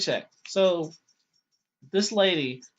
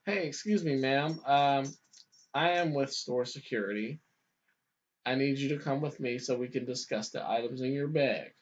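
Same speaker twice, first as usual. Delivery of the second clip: polite, gentle; 3 semitones lower, 5 dB quieter than usual. Retold or imitated. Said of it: "I said it the most nice way".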